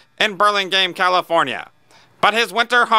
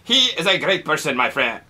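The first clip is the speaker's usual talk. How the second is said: Lil Vinny Danfus voice; 3 semitones lower than usual. Acted. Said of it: "My name is Lil Vinny Danfus".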